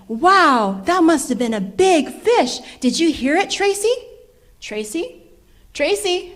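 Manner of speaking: calling out. A narrator's reading. Brother calls out for sister.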